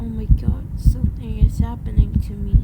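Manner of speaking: screaming in sudden panic; panicked scream. Acted. Transforming kid screams in panic at what's happening. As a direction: yell it out, terrified by the change.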